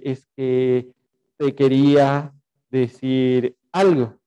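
slow, halting attempt to confess; acted tongue-tied suitor; nervous, hesitant confession. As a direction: stall shyly between the words. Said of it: "porque estábamos nerviosos".

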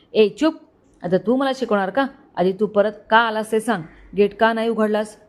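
mild mock shout. Drunk boss scolding driver, understated shout. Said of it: "Paras ओरडला".

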